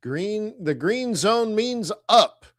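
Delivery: high-pitched call without much extra volume; mild mock yell. Trader reenacting his reminder to webinar students, mild mock yell. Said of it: "and I yelled".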